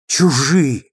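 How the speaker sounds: чужие said again with a falling, final tune; bitter repetition. A narrator's reading. D'Urberville repeating the word to himself, bitter fall. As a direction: let чужие land flat and bitter.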